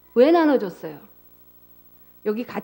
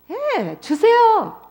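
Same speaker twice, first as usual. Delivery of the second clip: insistent son; 9 semitones higher, much slower than usual. Retold or imitated. Son demanding inheritance.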